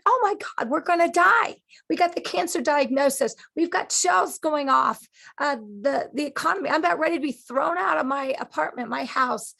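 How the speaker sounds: high, loud, breathless rush of fear; panicked voice. Acted. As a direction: sound like everything is collapsing at once. Voicing panicked people in crisis.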